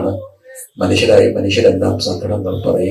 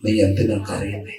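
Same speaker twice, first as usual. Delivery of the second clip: soft question; 5 dB quieter than usual. Acted. Christ asks the woman softly.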